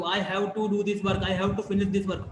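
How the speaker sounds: slow, careful student self-talk; "have to" drawn out and clear; slow model sentence. Shown as a demonstration. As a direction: say it slowly as a model line. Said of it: "तो उस time आप क्या बोलोगे".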